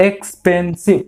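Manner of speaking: এক্সপেন্সিভ broken into three separate beats; এক্সপেন্সিভ split up to count its syllables. Shown as a demonstration. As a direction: say এক্সপেন্সিভ in three parts, ex-pen-sive. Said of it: "তিনবারে বলছো".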